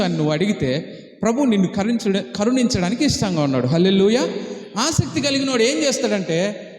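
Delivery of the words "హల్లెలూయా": ringing hallelujah called out; loud hallelujah. Real, not acted. Preacher rouses the congregation with a loud hallelujah. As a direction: lift the room with it.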